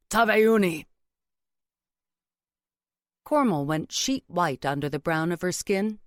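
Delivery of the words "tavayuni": loud, higher Tavayuni, set apart; pointed single word. A narrator's reading. Mother-in-law revealing what she knows, Tavayuni loud and pointed. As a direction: land Tavayuni loudly as a veiled threat.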